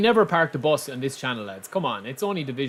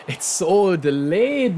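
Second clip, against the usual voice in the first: laughing; 4 semitones higher, much slower than usual. Real, not acted. Laughing at input lag.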